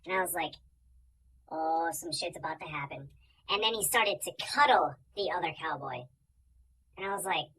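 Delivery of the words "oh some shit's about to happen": hushed whisper of suspicion. Retold or imitated. Viewer on the couch whispering in suspense. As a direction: whisper it like something's coming. Watching movie, suspicious reaction.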